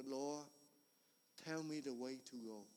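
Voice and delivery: soft, hushed plea to God; whispered prayer. Retold or imitated. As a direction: whisper it like a lost man praying. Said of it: "And I whisper in that small voice".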